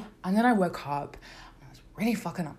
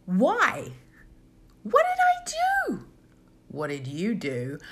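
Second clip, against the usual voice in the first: a hammed-up heartbroken plea; hurt wail; 2 semitones higher, 3 dB louder, slower than usual. Asking boyfriend why he dumped her, mock hurt wail.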